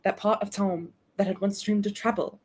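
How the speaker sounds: amateur British story reading; attempted British accent. Streamer returning to the story after a reminder, attempted British accent. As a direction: put on British for the narration. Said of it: "Ooh, British, British, British".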